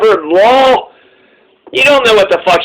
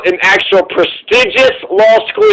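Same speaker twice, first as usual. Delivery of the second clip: smug. Retold or imitated. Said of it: "said prestigious like a fucking prick".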